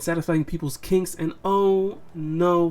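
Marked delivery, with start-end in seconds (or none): 1.4-2.7 slow, drawn-out mock "oh no"; mock dismay. Reviewer recapping a plot twist, mock dismay. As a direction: feign dismay, dragging the words out.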